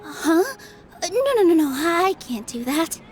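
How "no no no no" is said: higher, flustered string of refusals. Acted. Nilou turning down free goods, flustered. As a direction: wave the offer away, startled.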